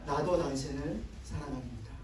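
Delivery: soft, hushed reply for the congregation to echo; soft spoken response. Shown as a demonstration. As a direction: murmur it tenderly as a model. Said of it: "한 번 더". (회중이 따라 하도록 부드럽게 속삭이듯)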